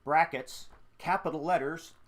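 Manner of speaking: lively previously-on recap; fun recap voice. Acted. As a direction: read it like a playful TV recap. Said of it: "in your fun recap voice".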